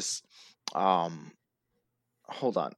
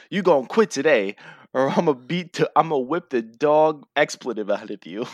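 louder mock threat, slightly raised pitch; retold threat; 3 semitones higher, 5 dB louder than usual. Fan retelling Jay's threat to Roman, raised-voice imitation. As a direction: imitate a wrestler's fired-up threat.

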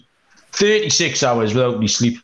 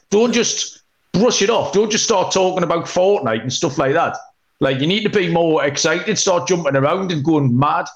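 telling off; 5 semitones higher than usual. Retold or imitated. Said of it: "I bollocked them".

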